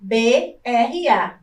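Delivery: B R A said slowly, each letter apart; spelling letter by letter. Shown as a demonstration. Teacher to class, spelling B R A slowly. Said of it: "nós temos a sílaba bra".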